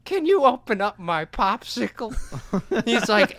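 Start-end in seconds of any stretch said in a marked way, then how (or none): 0.0-2.1 much higher, pleading put-on voice; a comic pretending to be helpless to strangers, high and pleading; mock helpless voice. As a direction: play dumb and helpless to the gangsters. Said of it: "I make myself more retarded than I am".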